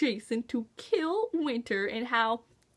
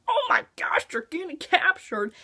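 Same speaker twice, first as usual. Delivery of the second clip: shocked yelp; 4 semitones higher than usual. Real, not acted. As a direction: blurt it in alarm. Shocked reaction.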